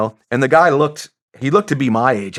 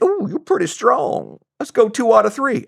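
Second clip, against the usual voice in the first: Southern clerk; 11 semitones higher than usual. Retold or imitated.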